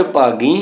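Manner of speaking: ਭਾਗੀ ending in nasal ee; nasalised final vowel. Shown as a demonstration. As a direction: end ਭਾਗੀ through the nose. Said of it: "ਭਾਗੀ ਦੀ ਬਿਹਾਰੀ ਉੱਪਰ ਬਿੰਦੀ". (ਭਾਗੀ ਦੀ ਬਿਹਾਰੀ ਨਾਸਕੀ)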